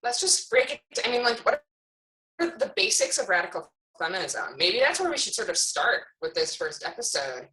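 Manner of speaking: choppy call audio breaking up; bad connection. Real, not acted. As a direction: voice cutting in and out on a call. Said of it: "You're breaking up a lot".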